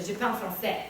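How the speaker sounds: French pronounced with a French accent; proper French accent. Shown as a demonstration. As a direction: say it as a French speaker would. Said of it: "as opposed to".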